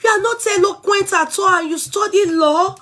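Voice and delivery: high, mocking imitation of a snooty critic. Vlogger mimicking the fan who called her not eloquent, high mocking voice. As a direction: sneer it back the way she wrote it. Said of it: "the person now say".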